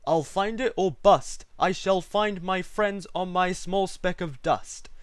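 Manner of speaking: determined cry. A narrator's reading. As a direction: declare it loud and high. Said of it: "cried Horton".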